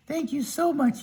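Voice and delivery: high, relieved Tin Man; storyteller voicing a high grateful Tin Man. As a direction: pitch up as the freed Tin Man.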